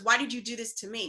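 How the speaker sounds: quick "Why did you do this to me"; "Why did you do this to me" run fast, falling at the end; retold accusing retort. His retort, quoted back faster.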